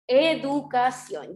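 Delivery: "Educación" said slowly and clearly; slow, clear word. Shown as a demonstration. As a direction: repeat "Educación" slowly for the class. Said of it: "¿Cuál es la sílaba tónica?". ("Educación" dicho despacio y claro)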